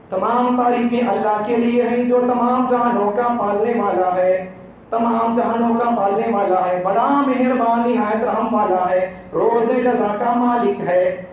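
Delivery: even, measured recital as if in prayer; reciting a translation. Shown as a demonstration. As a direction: recite it steadily, drawing out phrase endings. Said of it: "ایسا ترجمہ پڑھتے جائیں گے".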